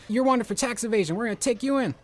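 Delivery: high, loud hammed-up arrest call; shouted official command; mock cop order. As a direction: bark it like TV police. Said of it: "They're like".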